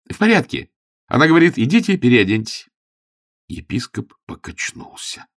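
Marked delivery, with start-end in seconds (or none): 0.1-2.7 high, loud triumphant report; Augustine telling the bishop the news, gleeful. A narrator's reading.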